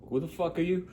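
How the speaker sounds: high-pitched mock reply; imitated passerby. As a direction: challenge a stranger in a high put-on voice. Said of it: "And they're like".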